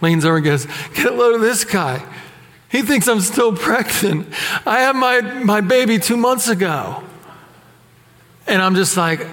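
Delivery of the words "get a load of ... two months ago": higher-pitched imitation of a New York woman; mock New York complaint to a friend; thick New York accent. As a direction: do an indignant New Yorker's accent. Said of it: "in this thick New York accent".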